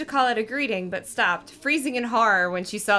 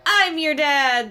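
slow, high, louder bellow; 5 semitones higher, 5 dB louder, slower than usual. Acted. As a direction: boom it from the doorway.

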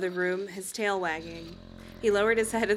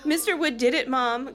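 heated; 5 semitones higher, 3 dB louder than usual. Acted. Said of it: "Chris said heatedly".

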